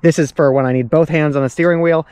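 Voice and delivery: talking while bouncing on rough road; on a bumpy road. Real, not acted. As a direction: voice jolted by bumps. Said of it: "road is really bumpy".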